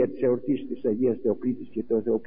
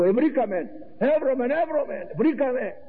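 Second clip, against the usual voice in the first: high, ecstatic cry of discovery, pitched way up; excited cry; 9 semitones higher than usual. Acted. Nathanael to his friend Philip, announcing the Messiah, ecstatic and high. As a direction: shout the find like you can't contain it.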